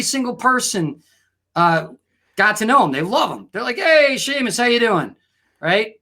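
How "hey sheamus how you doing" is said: raised, friendly pub hello; acted crowd welcome; hearty greeting. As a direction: call out to a favorite regular. Pub regulars greeting Seamus.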